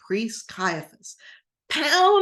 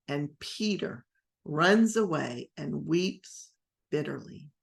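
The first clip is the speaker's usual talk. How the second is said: usual speaking voice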